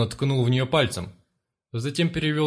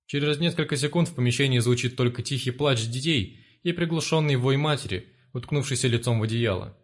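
plain reading voice

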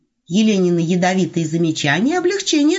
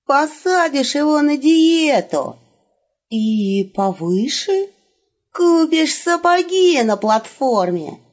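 furious hiss; 7 semitones higher, 4 dB louder, slower than usual. A narrator's reading. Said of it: "яростно прошипел волк".

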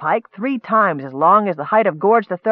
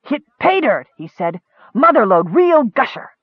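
proud; 5 semitones higher than usual. Acted. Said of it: "stood as tall as".

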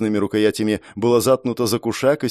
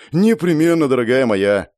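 jovial dandy; 2 semitones higher, 4 dB louder than usual. Acted. Dandy mocks politely.

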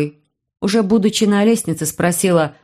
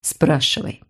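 gracious permission; 2 semitones lower, slower than usual. A narrator's reading. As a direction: grant the question kindly. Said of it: "милостиво сказала".

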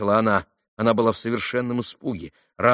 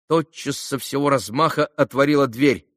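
ordinary delivery, nothing marked

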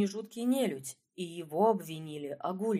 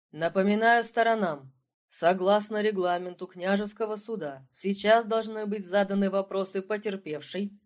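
dry; 4 dB louder than usual. Acted. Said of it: "Сухо поинтересовался судья".

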